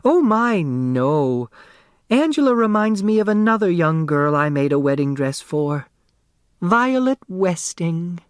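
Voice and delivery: put-on a small, round seamstress selling her old shop; eager dressmaker.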